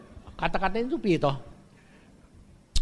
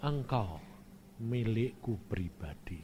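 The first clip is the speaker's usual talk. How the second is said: gentle voice of God; 8 semitones lower, 10 dB quieter than usual. Retold or imitated. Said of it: "Dia cuma ngomong".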